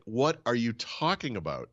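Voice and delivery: slow, drawn-out baffled question; retold bafflement. Wife hearing about landing in Atlanta, retold bafflement. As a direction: imitate a wife stretching out her disbelief.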